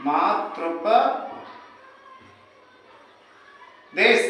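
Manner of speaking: मातृपदेश stretched very long and soft, falling at the end; very drawn out. Shown as a demonstration. Teacher to students dragging out the answer, very slow and soft. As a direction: drag मातृपदेश out syllable by syllable. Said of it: "तो क्या हो जाएगा?".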